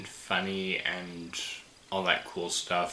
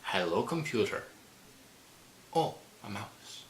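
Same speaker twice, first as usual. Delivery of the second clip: wobbly mock Scottish accent; a loose attempt at a Scottish accent; lightly put-on, wandering Scottish accent; Scotty. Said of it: "I know my accent flies all over the place".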